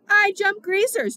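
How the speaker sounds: high, loud, drawn-out yell; screamed. A narrator's reading. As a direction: scream it out slowly as a gleeful boast. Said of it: "Two-Bit screamed".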